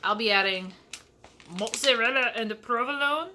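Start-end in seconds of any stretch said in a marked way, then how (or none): 1.6-3.3 put-on a weak, half-hearted Italian accent on "Italian blend"; failed Italian accent. Host naming her cheese in a botched Italian accent. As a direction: try a bit of Italian accent and miss. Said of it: "That's not an Italian accent".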